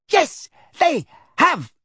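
put-on old lady yelling furiously. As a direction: yell it while swinging the bag. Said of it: "yelled Missus Figg".

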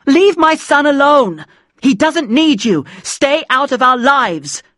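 high, drawn-out angry outburst; screaming. A narrator's reading. Mum grabs the phone from her child, screaming at Dad. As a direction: scream it as a furious mother. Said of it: "but she screamed".

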